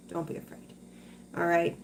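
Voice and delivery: hushed whispered comfort. Real, not acted. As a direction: breathe it to her gently. Reassuring a worried viewer.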